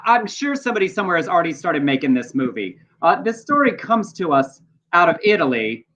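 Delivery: measured read-aloud with deliberate pauses; news story read. Real, not acted. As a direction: read the news item out, punching key phrases.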